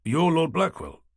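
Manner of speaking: taken aback, lightly played; detective realising the mechanic is the lord, mild surprise; surprised. A narrator's reading. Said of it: "jolting his head back in surprise".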